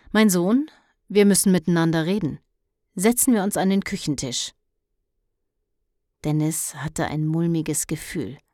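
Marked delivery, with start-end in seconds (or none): 0.1-4.5 grave talk at the kitchen table; solemn announcement. Acted. Mother opens serious talk. (feierlich-ernst, schnell und höher)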